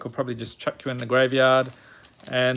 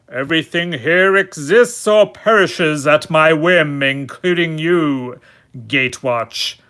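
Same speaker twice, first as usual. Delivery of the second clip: lightly voiced menacing villain. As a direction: play a mock-menacing overlord. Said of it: "that is a very menacing statement".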